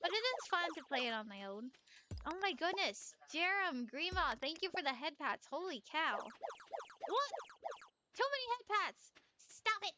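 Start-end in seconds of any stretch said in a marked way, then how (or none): 6.2-9.9 high, flustered protest; playfully exasperated and high; mock overwhelmed. Real, not acted. Streamer swamped by viewers' head pats, flustered.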